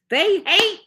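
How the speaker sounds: high, loud outburst; worked-up exclamation. Real, not acted. Reacting to being cut off.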